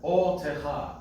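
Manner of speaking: "otecha" slow, O accented but not split off; "otecha" in one flow with a lean on the O; otecha joined. Shown as a demonstration. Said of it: "don't separate it, but".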